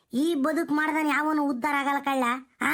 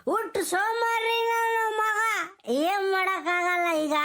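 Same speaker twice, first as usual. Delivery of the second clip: tearful lament; 4 semitones higher than usual. Acted. Old man complaining to Gowda.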